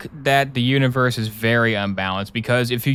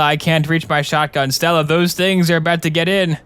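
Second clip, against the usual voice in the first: panicked pleading; 2 semitones higher than usual. Pretend. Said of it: "you're really scaring me".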